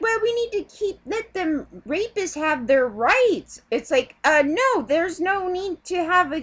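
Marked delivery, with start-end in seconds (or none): 0.0-3.6 mocking ACLU voice. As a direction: drag out their excuse as if it's obvious. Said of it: "They're like".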